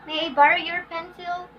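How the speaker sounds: polite yes-no question, "pencil" lifting up; rising intonation. Shown as a demonstration. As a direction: end "pencil" on a rising pitch. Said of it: "what else?".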